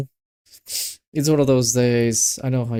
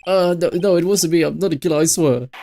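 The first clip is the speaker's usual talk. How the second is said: higher-pitched, flustered protest of innocence; panicked denial; 4 semitones higher, 3 dB louder than usual. Acted. Accused man to the courtroom, panicked denial. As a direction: plead innocence, a touch frantic. Accused character denying the killing.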